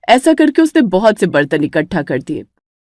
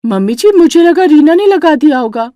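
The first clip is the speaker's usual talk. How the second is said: higher, bossy sister-in-law voice; lightly raised scolding tone; elder sister-in-law; 7 semitones higher, 4 dB louder than usual. Acted. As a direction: boss the young bride around. Vimla excuses herself.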